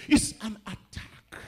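loud, drawn-out warning; emphatic declaration. Real, not acted. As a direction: proclaim it slowly at full voice. Same phrase shouted, then whispered.

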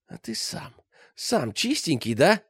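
шипит, зло и вкрадчиво; hissing. A narrator's reading. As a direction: hiss it in a breathy, menacing voice. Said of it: "зашипел Перетрусов". (зловещее шипение)

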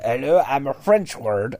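lightly mock French accent. Borrowed word introducing itself, light French accent. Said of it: "with a French accent".

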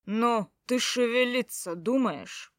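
slow, impatient call through the window; impatient man's voice. Acted. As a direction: hurry her up, lightly voiced. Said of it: "послышался голос Хакана". (нетерпеливый мужской голос)

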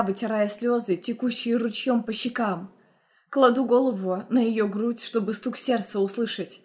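usual speaking voice

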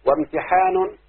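recited verse. Shown as a demonstration. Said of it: "اسمع كده قول شوقي".

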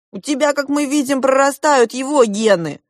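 high, loud accusing retort; snapping back. A narrator's reading. Younger prince about the bandit's son, snapping back. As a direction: hurl it back as an insult. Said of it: "огрызнулся младший принц".

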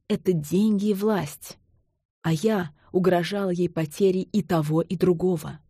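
plain reading voice

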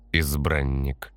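drawn-out, weighty naming; slow and grave. Acted. Fatum solemnly names Anton, very slow. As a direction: stretch the word out sternly. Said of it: "грозно сказала Фатум".

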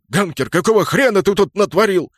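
loud, high rough demand; barking shout. A narrator's reading. Kraken scolds Ganker for the havoc, barking loudly. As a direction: bellow at a mate who messed up. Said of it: "рявкнул Кракен".

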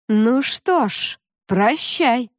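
mermaid voice. Acted. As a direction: spit a cold farewell slowly. Mermaid leaving.

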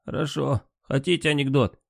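drowsy, half-asleep patient; sleepy voice. Acted. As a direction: speak softly, heavy with sleep. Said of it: "Сонный голос Лукина".

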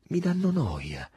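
contemptuous. A narrator's reading. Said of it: "con un tono di sprezzo".

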